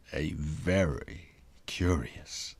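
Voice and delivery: low whisper fading out; whispered refrain. A narrator's reading. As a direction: confide it softly. Storyteller's refrain.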